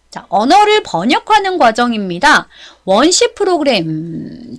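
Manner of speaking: ordinary delivery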